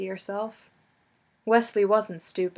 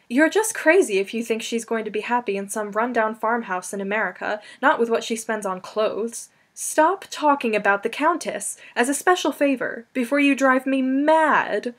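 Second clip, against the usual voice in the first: angry; 2 semitones higher, 4 dB louder than usual. Acted. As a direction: get more frantic to the end. Buttercup's tirade builds.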